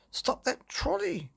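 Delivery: high, frantic father's cry. Acted. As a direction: yell after the runaway trolley. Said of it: "cried Father".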